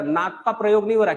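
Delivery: normal talking voice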